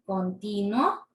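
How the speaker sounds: continuo as con-TI-nuo, slow, rising at the end; low, slow continuo with the weight on TI; stress on TI. Shown as a demonstration. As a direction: lean on the TI in continuo. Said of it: "tienen una fuerza de voz".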